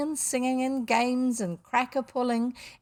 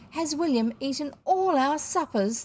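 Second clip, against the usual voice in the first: higher-pitched indignant question; aggrieved guests; 6 semitones higher, 3 dB louder than usual. A narrator's reading. Supperless guests complaining about the missing boy, aggrieved. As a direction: demand it like a cheated guest. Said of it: "twenty enraged guests".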